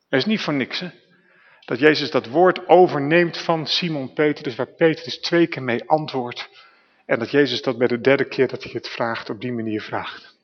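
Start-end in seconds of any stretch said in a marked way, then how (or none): none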